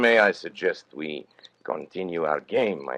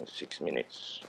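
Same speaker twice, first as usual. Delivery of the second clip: hushed menace; 2 semitones lower, 13 dB quieter, slower than usual. Acted. Menacing countdown to blackmailed men.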